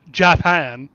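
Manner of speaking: put-on "Japan" said as "Jah-pahn" in a Japanese accent. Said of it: "saying the word Japan in a Japanese accent".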